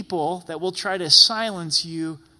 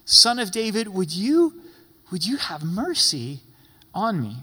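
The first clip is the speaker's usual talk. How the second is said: crying out; 2 semitones higher than usual. Retold or imitated. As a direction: call out to him for mercy. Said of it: "He cries out, he cries out and he says".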